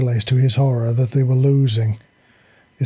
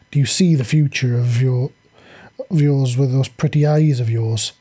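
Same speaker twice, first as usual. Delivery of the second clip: taunting. Acted. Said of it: "she taunted him".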